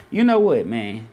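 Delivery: giving up mid-explanation, annoyed; frustrated outburst. Real, not acted. Streamer loses his own example, bursts out frustrated.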